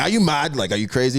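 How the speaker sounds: indignant question with a hint of African accent; African dad accent. African dad scolding his lost son, mock indignant African accent. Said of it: "you know Africans be like".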